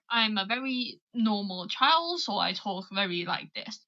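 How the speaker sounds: posh accent. Shown as a demonstration. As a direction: demonstrate measured posh English speech. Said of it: "Posh accent".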